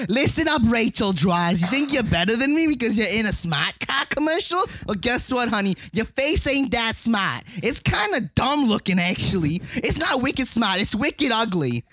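mock trash-talk in a Boston accent; hammed-up Boston accent rant. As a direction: tell someone off in playful Boston. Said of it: "in Boston accent".

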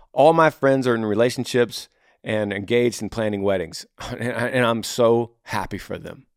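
mildly glad, appreciative retelling; flipped positive. Acted. Modelling a flipped attitude to friends' weddings, mildly happy. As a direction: turn the complaint into gladness for them. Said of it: "what if you flip it".

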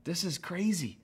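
hushed "oh my gosh", then incredulous; retold uneasy disbelief with a small laugh; doubtful laugh. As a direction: breathe out the dismay, then protest mildly. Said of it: "having that first laugh of Sarah".

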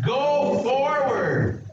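"go forward" drawn out very slowly and high; stress on go forward. Shown as a demonstration. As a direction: stretch "go forward" slowly for the crowd to echo. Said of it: "say it with me".

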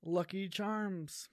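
put-on drawn-out Indian accent, hammy. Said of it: "make an impression of Abrar".

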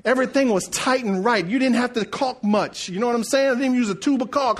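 measured, emphatic sermon rhythm; preaching. Acted. Preacher praising the carpenter's tight work, preaching. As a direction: land each point with weight.

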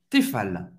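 "Tefal" ending on a clear, sounded L; final L pronounced. Shown as a demonstration. Teacher showing learners the brand's last letter, final L pronounced. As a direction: finish "Tefal" with a real L, never a W. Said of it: "você vai pronunciar o L".

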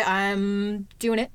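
slow, drawn out through laughter; laughing. Real, not acted. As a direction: laugh the words out slowly. Laughing at her own gym claim.

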